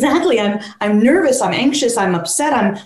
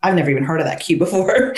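laughing dog voice; 2 semitones lower, faster than usual. Retold or imitated. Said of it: "the dog's like".

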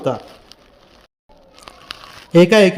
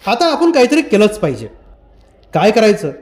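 urgent and higher, mild outrage; agitated; 3 semitones higher than usual. Acted. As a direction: demand action from the group. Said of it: "तो उद्विग्न होऊन म्हणाला".

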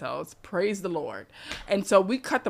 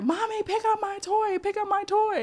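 put-on high, whiny little-boy voice; pitched-up toddler nagging mommy for his toy; whiny toddler demand; 13 semitones higher than usual. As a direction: play the demanding three-year-old. Three-year-old demanding toy.

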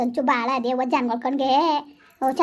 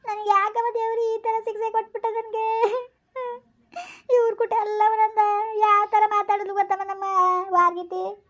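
high, tearful lament to God and a friend; crying; 4 semitones higher than usual. Acted. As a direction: plead through tears, voice pitched up and breaking. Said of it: "ಅಳ್ಬೇಡ, ಸುಮ್ನಿರು". (ಅಳುತ್ತಾ ನೋವು ಹೇಳಿಕೊಳ್ಳುವುದು)

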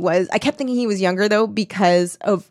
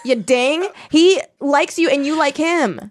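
mock exasperated plea; 7 semitones higher than usual. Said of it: "And I was like".

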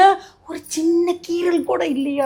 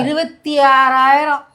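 slow, drawn-out disbelief; stunned repeat; 3 dB louder, much slower than usual. Acted. Wife repeats the hospital bill in slow disbelief. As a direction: stretch the sum out in dismay.

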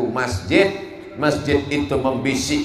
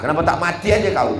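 quick, higher-pitched mock scolding; mock angry; 4 semitones higher, faster than usual. Preacher imitates wife scolding husband at home, mock angry. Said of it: "Padahal di rumah dia marah".

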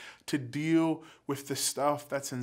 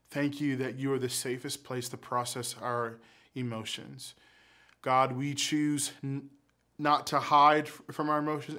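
closing prayer. Acted. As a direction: pray gently over the group.

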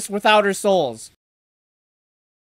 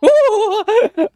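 high excited whoop; 12 semitones higher than usual. Real, not acted. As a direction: whoop at the big moment. Reacting to fight on screen.

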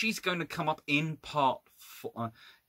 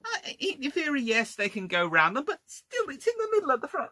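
very high-pitched incredulous protest; exasperated disbelief; 12 semitones higher than usual. Real, not acted. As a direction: object in a rising, strained high voice. Exasperated objection to odd design.

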